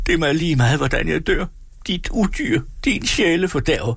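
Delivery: high-pitched reckless outburst; desperate raging. A narrator's reading. Doomed peasant defying the forester, desperate raging.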